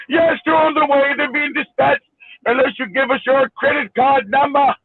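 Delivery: lightly mocked Indian accent of a scam caller. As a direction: put on a mild Indian accent, formally. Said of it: "with an Indian accent".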